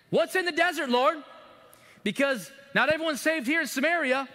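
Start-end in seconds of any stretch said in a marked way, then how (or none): 0.1-1.2 puzzled question. Acted. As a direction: stress on "in" in "What's in the desert", asked high and puzzled. Philip questions God, pitched up.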